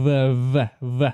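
"V" said as its bare consonant sound, repeated; V sound demonstrated. Shown as a demonstration. Learner checking how V is pronounced, sounding out "V" as a bare consonant. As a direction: sound out "V" as a short voiced buzz, not the letter name. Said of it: "ตัว V ออกเสียง V".

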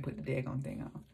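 talking while fitting teeth; fingers in mouth. Real, not acted. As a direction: lips held apart by hands. Seen 1: Fingers push white dental piece into mouth from 0.8s on.

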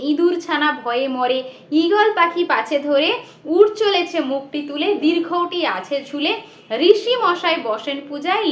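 sing-song nursery rhyme recital; lilting children's rhyme. Shown as a demonstration. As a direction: chant it like reading to small children.

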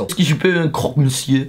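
"croque monsieur" with a mock French accent; a hint of a French waiter; light French accent. Shown as a demonstration. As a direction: order "un croque monsieur" like a Parisian. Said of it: "Je moet dat een beetje zeggen met een Frans accent zo".

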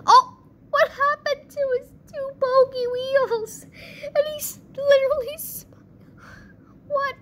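real high-pitched disbelief; amused disbelief. Real, not acted. Amused shock at a crash.

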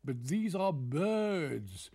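sly weaver voice. Acted. Weaver corrects the courtier.

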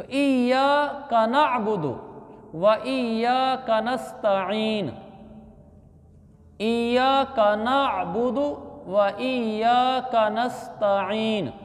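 very slow, measured Quran recitation; teaching recitation. Shown as a demonstration. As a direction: draw out long vowels, phrase by phrase. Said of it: "ये मैं अल्फाज आपको पढ़ के सुनाता हूँ". (ठहर-ठहर कर क़ुरानी तिलावत)

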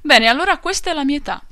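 loud, high, emphatic declaration; great emphasis. Acted. The old maltster proudly declares his age, emphatic and loud. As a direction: stamp the claim with big emphasis. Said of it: "disse con grande enfasi".

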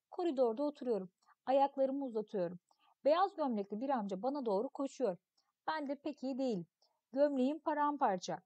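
put-on expressive read-aloud of a children's story. Teacher reading a story text to pupils, expressive narration. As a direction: read the tale to the class, acting the voices.

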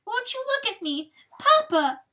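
high wail rising to a loud cry; plead, then cry out loudly; bawling. A narrator's reading. Fawn ignored by Papa, high bawling. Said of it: "bawled the poor fawn".

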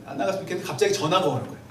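fast, rushed repeat of "안 나갔으면 좋겠는데"; rushed retelling. Retold or imitated. Preacher rushing on to the sudden phone call, fast. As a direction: hurry through the wish and into the story.

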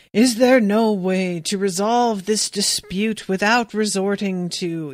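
slow, ceremonious elder's question; a solemn elder asking for peace; formal elder. Retold or imitated. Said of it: "the first elder has to do the thing like".

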